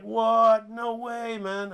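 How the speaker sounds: high, incredulous protest; indignant disbelief. Acted. Player told he will be benched, indignant. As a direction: blurt it high, refusing to accept it.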